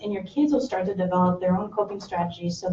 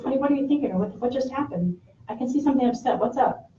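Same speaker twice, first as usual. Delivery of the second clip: gentle question; 5 semitones higher than usual. Shown as a demonstration. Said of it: "leave it open-ended with your kids".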